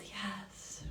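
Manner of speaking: unvoiced soft yes; whispered yes. Real, not acted. Host affirms a viewer's dedication, whispering.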